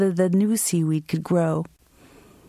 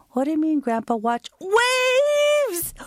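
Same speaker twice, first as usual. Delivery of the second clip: put-on child's voice; 11 semitones higher than usual. Child self talking to grandpa.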